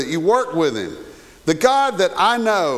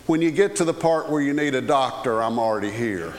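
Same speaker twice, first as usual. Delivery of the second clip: kindly lady; 4 semitones lower than usual. Retold or imitated. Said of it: "spoke in his ear very kindly".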